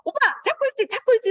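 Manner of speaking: high anxious pleading; nervous child on a bike, voice high and tight; scared pleading. Retold or imitated. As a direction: beg him not to let go.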